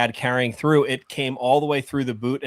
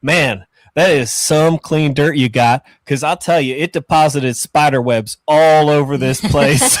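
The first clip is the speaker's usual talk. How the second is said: put-on Southern accent; 5 dB louder than usual. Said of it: "he's got this thick Southern accent".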